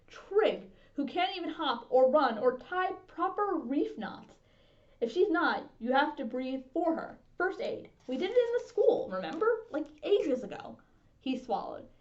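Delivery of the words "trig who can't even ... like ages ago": put-on urgent and high, frightened child; high anxious boy. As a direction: blurt it out fast and high, scared. Scared boy urges first aid.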